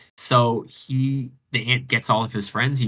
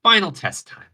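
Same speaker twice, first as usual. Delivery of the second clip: higher, louder announcing the final test; gloating Venus; 9 semitones higher, 6 dB louder than usual. Retold or imitated. Venus announcing the final test to Psyche, gloating. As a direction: relish the cruel last trial. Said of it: "she's like".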